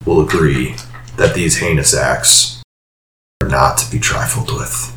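clipped annoyance fading to a hush; irritated. Acted. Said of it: "but a little bit more irritated".

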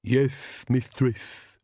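meek servant's reply. A narrator's reading. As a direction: give in meekly to your mistress. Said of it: "said Igor meekly".

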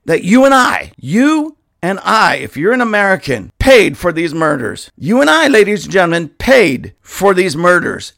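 rising heartbroken outrage; angry and heartbroken. Real, not acted. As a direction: pour real anger into it, near tears. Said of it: "I am so angry and I'm so heartbroken".

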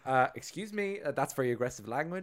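mildly affronted, polite objection; lightly acted polite protest; really polite monster. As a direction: start high, settle into courteous complaint. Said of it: "being really polite".

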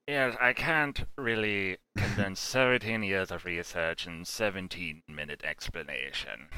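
mock Brando talking round something in his mouth; Brando mumble. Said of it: "constantly had something in the back of his mouth".

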